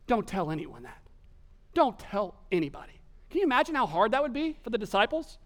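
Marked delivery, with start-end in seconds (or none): 0.1-3.0 mild, measured stern command; stern warning. Retold or imitated. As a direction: warn them firmly without raising your voice. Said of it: "It says sternly".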